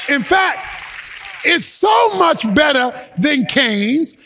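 fervent sermon delivery with emphatic phrases; impassioned preacher addressing a congregation; forceful preaching. Real, not acted.

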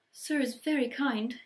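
high, slow tearful elf squeak; overwhelmed squeak. Acted. Elf thanking Ron for the sweater, tearful squeak. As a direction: squeak it, near tears with gratitude. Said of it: "he squeaked".

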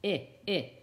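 "I, I" said as the short vowel in "shin"; "I, I" as a clipped ih, not the letter's name; short I sound. Shown as a demonstration. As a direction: say "I, I" as two separate short ih sounds. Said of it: "you hear that short I sound".

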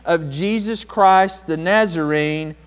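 loud, high, slow ringing command; Peter's command. Acted. Peter commanding the lame man to walk, loud. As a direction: proclaim it so the lame man rises. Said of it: "But Peter said".

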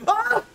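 short, high mock scream; high startled scream. Game master acts guard heard from below, short scream. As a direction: let out a sudden high yelp. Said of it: "And then you just hear".

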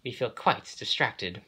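protesting. A narrator's reading. Overworked coaches complain of their workload, protesting. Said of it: "they protested".

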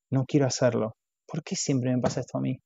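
a hint of quiet resentment; resentful inner grumble. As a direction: mutter it to yourself, put upon. Stacy's resentful inner thought.

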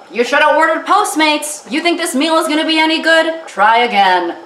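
the stove nags her for cooking; scolding stovetop. Retold or imitated. Stove scolding her about cooking, mock scolding voice. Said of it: "it's, like, scolding me".

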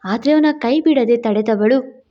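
ordinary delivery, nothing marked

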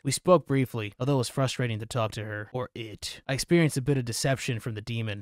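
measured read-aloud voice; story narration. Acted. Player reading an investigator's account of Amy, measured narration. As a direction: narrate the written account evenly. Reads an in-game note aloud.

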